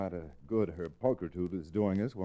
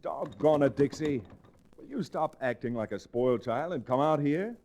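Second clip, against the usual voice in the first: higher and louder, fed-up scolding; exasperated shout; 7 semitones higher, 4 dB louder than usual. Acted. Chad scolds Dixie through the door, exasperated and loud. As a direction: lose patience and scold her through the door.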